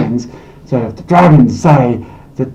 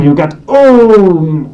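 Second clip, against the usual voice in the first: understated oom; 3 semitones higher, much slower than usual. Shown as a demonstration. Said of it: "a really understated reaction".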